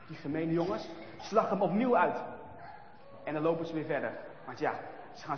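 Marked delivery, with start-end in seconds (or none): none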